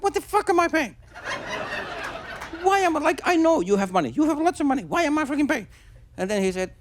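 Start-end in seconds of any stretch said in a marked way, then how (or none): 0.0-5.7 high-pitched indignant outburst; exasperated retold confrontation; confronting. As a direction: demand an answer, voice pitched right up. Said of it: "I just confronted".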